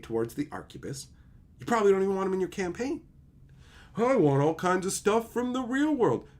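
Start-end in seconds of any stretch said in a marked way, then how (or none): 3.9-6.3 slow, higher whiny voice; mock player. Imitating a realism-loving player, slower and higher. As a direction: drawl it like an entitled player.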